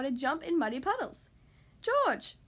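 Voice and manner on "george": high call to a little brother; like Mommy Pig. A narrator's reading. Peppa to little brother George, mimicking Mommy's instructing call. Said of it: "just like Mommy Pig".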